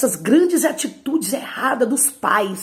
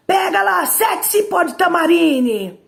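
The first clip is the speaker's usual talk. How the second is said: much higher and louder, barking the command; angry mother's order; 10 semitones higher, 6 dB louder, slower than usual. Retold or imitated. Enraged mother shouting at her child to fetch the switch.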